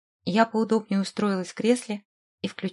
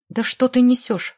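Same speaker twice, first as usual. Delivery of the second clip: mildly angry, louder outburst; growled retort; 3 semitones higher, 6 dB louder than usual. A narrator's reading. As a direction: throw it back with raised volume. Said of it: "рыкнул Брехман". (негромко сыгранный рык, с нажимом)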